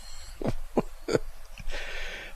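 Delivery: soft breathy laugh. Real, not acted. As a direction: laugh quietly to yourself. Cannot repeat the man's words.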